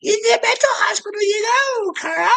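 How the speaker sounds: very high, loud mocking shout; jeering falsetto yell at Carl; shrill mocking taunt. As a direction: screech it out like a cruel tease.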